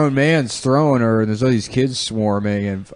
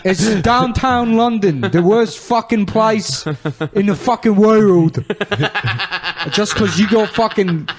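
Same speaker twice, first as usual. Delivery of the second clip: mock British accent; 9 semitones higher than usual. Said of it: "sounds a lot like you're a South African".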